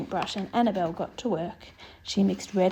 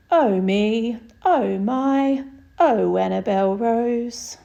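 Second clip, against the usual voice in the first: laughing mum; 6 dB louder, much slower than usual. Acted. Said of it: "Her mum just laughed and said".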